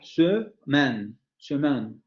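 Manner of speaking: "semaine" in French, first vowel sounded, nasal ending. Shown as a demonstration. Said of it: "Esa palabra se pronuncia semaine". (pronunciación francesa de "semaine" con la primera vocal)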